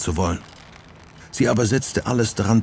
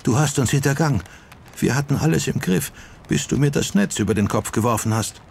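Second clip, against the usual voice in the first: angry reproach; 6 semitones higher, faster than usual. A narrator's reading. Sachiko wirft Hughes Verrat vor.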